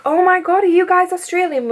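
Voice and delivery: high, gushing mock excitement; retold amazement. Drunk stranger thrilled to meet Australians, high mock amazement.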